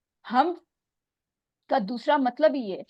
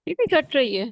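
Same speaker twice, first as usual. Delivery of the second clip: bad connection; 3 semitones higher, 6 dB louder than usual. Real, not acted. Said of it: "آپ کی آواز بہت کٹ رہی ہے".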